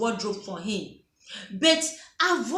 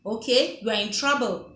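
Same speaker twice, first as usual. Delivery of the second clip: stern. Retold or imitated. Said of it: "when your tone is like".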